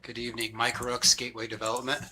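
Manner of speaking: hoarse, barely-there voice; raspy whisper. Real, not acted. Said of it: "Sorry, I have no voice".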